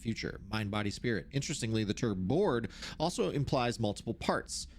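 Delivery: measured, formal reading voice; document read-aloud. Acted. Researcher reads out notes on the oldest house, formal read-aloud.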